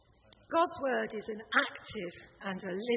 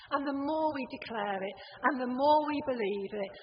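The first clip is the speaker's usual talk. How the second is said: louder with each line, building up; rousing build; 3 semitones higher, 4 dB louder than usual. Acted. Preacher rousing the congregation, building louder.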